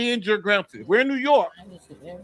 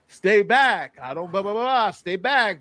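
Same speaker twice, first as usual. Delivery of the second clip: imitating urgent warnings, barely raised; mild mock yell. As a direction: retell her yelling without really shouting. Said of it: "she's yelling".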